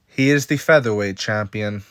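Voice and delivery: lightly imitated Islam Makhachev accent; Islam Makhachev impression. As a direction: attempt his accented speech, with a slip of McGregor. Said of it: "That's my best impression of it".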